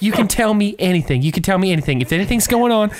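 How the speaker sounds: high, earnest mock-Southern plea; Southern accent. Imitating the neighbor urging Kelly to confide, Southern accent. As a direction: coax her gently in a Southern voice. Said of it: "She's got a southern accent".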